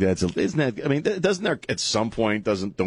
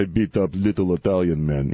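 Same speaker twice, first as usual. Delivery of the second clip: hammed-up Russian accent; joking movie-Russian accent; mock Russian accent; 4 semitones lower than usual. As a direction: put on a bad Russian accent. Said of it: "I don't know why I'm doing that accent".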